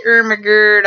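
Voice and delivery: "Oh my God" mangled as "ermahgerd"; loud "Oh my God" with every vowel turned to "er"; ermahgerd pronunciation. Retold or imitated. Quoting a running joke, "Oh my God" said as "ermahgerd". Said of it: "'Cause he used to say".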